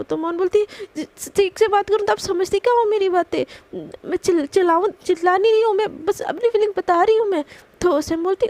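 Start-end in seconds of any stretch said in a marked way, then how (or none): 1.0-7.4 higher and louder, defensive and worked up; heated protest. Retold or imitated. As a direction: insist you're not yelling while yelling. Heated argument with her boss. (झुंझलाहट भरी ऊँची आवाज़ में सफ़ाई)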